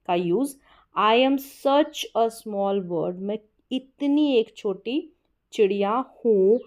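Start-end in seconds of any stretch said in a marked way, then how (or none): 1.0-3.1 "such" leaned on, in a slow, deliberate reading; emphatic, drawn-out "such"; stress on such. Shown as a demonstration. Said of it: "जोर देकर अपनी बात को बोलते हैं". 3.1-6.6 "इतनी" given extra weight; emphatic, stretched "इतनी"; stress on इतनी. Shown as a demonstration. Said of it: "जोर देकर अपनी बात को बोलते हैं".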